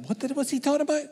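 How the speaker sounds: high, quick puzzled whisper-free squeak; mock bewildered question, high-pitched and rapid; baffled listener. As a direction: play a confused listener, voice jumping up fast. Mimics a baffled listener asking.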